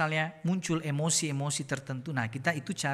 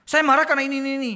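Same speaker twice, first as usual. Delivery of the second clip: mock indignant; 8 semitones higher, 9 dB louder, much faster than usual. Mocking self-justifying angry person.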